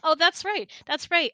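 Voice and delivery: high, loud, delighted remembering; sudden realization. Real, not acted. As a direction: burst out as it comes back to you. Sudden recollection after laughing.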